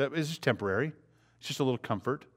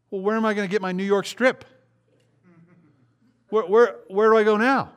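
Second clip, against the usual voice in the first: much higher and louder, petulant whine; self-centered whine; 8 semitones higher, 5 dB louder than usual. Retold or imitated. Preacher mocking a selfish reply to a friend, petulant whine. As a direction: complain like only your steak matters.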